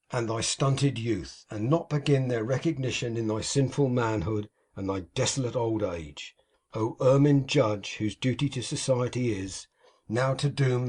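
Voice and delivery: a lightly heightened address, rolling and solemn; oratorical narration. A narrator's reading. Narrator rails against duty to society, mildly oratorical. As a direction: preach it to the judge and the prelate.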